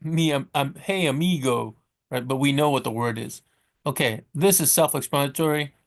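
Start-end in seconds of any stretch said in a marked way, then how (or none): 0.8-1.8 drawn-out American-accented "hey, amigo". Shown as a demonstration. Teacher imitating Americans greeting a friend, American accent. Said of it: "even if we pronounce it like amigo".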